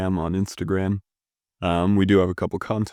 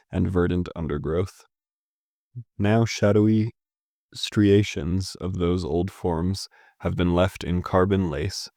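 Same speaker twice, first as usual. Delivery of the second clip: measured, evenly paced poetry reading; poem reading. Acted. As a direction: read the verse aloud with care, phrase by phrase. Reads the poem aloud.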